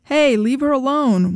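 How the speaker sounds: lackluster yell. A narrator's reading. Bystander intervening from across the street, lackluster yell. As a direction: call out without much force behind it. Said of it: "one of the men yelled".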